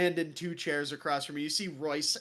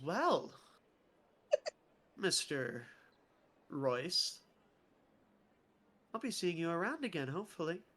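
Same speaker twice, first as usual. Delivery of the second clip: soft, lightly voiced lady, fading softer; flirty noblewoman; 5 dB quieter than usual. Noblewoman bidding Royce farewell, softly flirting. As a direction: coo a farewell as a lady, trailing off. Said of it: "And she goes".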